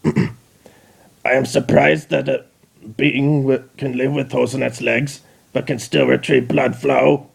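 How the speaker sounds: slow, lightly voiced robot; Dalek voice. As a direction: drag it out like a machine. Dalek speaking.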